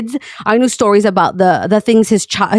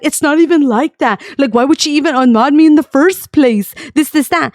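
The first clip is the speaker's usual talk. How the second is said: retold anger; 3 semitones higher than usual. Angry friend disputing being unmodded, retold indignant protest. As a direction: imitate a friend getting worked up. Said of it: "He started getting mad".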